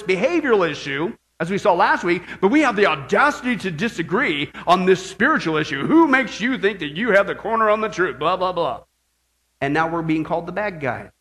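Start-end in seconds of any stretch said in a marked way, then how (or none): 5.8-8.8 lightly sneering critic, trailing into blah blah; mocking accusers. Preacher parrots critics of believers, half-hearted mocking. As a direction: brush off the accusers' taunt. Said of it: "they're saying".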